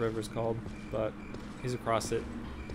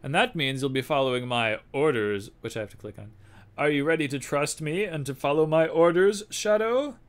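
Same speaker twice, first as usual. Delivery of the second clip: put-on louder, raised old spy boss; spymaster voice; 2 semitones higher, 7 dB louder than usual. Spymaster asking the courier for the package, gruff. Reads NPC dialogue in character.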